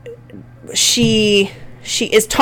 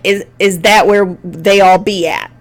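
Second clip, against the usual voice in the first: light informal quote; 2 semitones lower than usual. Shown as a demonstration. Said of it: "having a phrase like".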